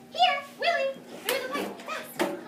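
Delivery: calling the dog through the pipe; urgent call. Acted. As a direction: hurry the dog in.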